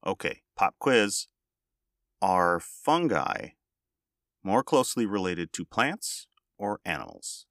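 loud, rising teacher voice calling the class; science teacher voice. Pretend. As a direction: hush the class like a schoolteacher. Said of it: "Turn on your science teacher voice".

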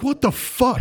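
high, incredulous what the fuck; baffled reaction. Retold or imitated. Reacting to the weird movie scene, high incredulous. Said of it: "I'm like".

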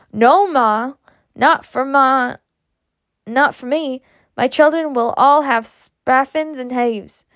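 lightly acted, drawn-out refusal; retold protest. Outspoken mother recalls refusing her own Ma, mildly indignant and drawn out. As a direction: stretch the words in mild indignation.

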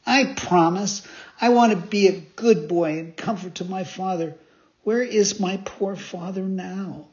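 eager puppet. Acted. Pinocchio asking the fairy about his father, lightly boyish. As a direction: plead with hope.

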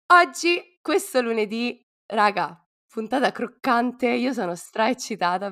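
bright burst of excitement; excited. Real, not acted. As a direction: announce it with a big lift. Excited announcement of episode.

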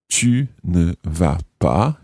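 slow, careful French model phrase. Shown as a demonstration. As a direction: spell it out slowly for learners. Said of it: "let's use the tu form".

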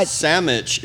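sandwich said as "SAM-mitch"; slangy "sammich". Shown as a demonstration. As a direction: say sandwich with an m in place of nd. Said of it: "two entirely different things".

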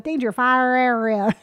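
slow, drawn-out Southern drawl; Southern accent. Retold or imitated. Mom reading road signs to laughing kids, Southern accent. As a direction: imitate Mom's Southern accent, stretching each word. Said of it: "Southern accent".

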